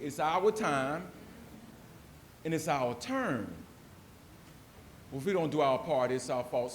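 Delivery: very slow, each phrase spaced out; slow emphatic motto. Shown as a demonstration. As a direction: land "our" in every line. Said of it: "one more time for the Holy Spirit".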